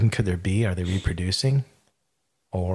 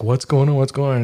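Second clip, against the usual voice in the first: higher, louder, anxious repeat; alarmed wife; 4 semitones higher, 5 dB louder than usual. Retold or imitated. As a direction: mimic the wife's startled questions. Wife panicking in retold story.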